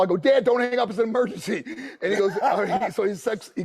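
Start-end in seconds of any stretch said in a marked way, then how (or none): 0.2-1.6 high, pleading retold urgency; mock-urgent, raised pitch; urgent plea. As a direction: beg him to stay on the line. Urgent plea on collect call.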